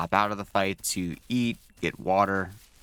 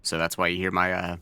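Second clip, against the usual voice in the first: mouth full. Real, not acted. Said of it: "gurgled, mouthful of food kinda talking here".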